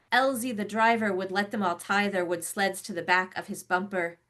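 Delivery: measured, rhythmic poem reading; poetry reading. Acted. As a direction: read it like a long flowing ballad. Poet reads her poem.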